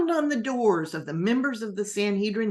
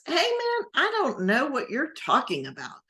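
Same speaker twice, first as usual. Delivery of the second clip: high, pleading brush-off; desperate denial; 8 semitones higher than usual. Acted. Peter, cornered by accusers at the fire, desperate denial. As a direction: wave them off with rising desperation.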